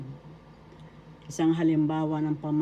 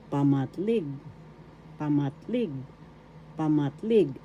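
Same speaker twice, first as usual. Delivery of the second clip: Pamatlig with the accent on its last syllable, lig; stress on third syllable. Shown as a demonstration. Teacher models the Tagalog relative pronoun, Pamatlig stressed on lig. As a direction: model Pamatlig for learners, leaning on the final lig. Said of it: "The accent is in the third syllable".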